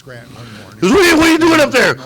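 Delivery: a half-mocking shout up to the roof; Junior's call from below. Dad calling up to kids on garage roof. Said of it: "He goes".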